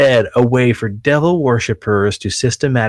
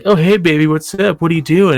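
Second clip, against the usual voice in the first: higher, sleazy come-on voice; creepy chat guy; 8 semitones higher than usual. Retold or imitated. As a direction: play the pervy guy luring a kid online. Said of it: "they'd be like".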